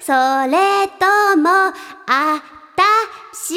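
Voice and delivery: a hint of a seductive maid; sexy maid voice. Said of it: "もう一回ね". (色っぽくゆっくり)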